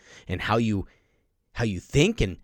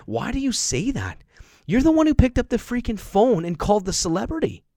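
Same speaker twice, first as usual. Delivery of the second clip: retold challenge; 12 semitones higher, 6 dB louder than usual. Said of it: "I said".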